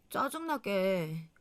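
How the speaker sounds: soft, slow irritated mutter; annoyed grumble. Retold or imitated. Wife ending her outburst at husband, slow annoyed mutter. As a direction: let the annoyance drag out quietly. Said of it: "화가 나서 막 성질을 내게".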